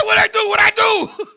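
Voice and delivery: high-pitched mock innocence; whining protest. Retold protest after being hit.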